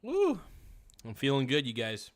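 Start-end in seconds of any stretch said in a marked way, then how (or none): 0.0-0.4 happy woo. Real, not acted. Hyped cheer.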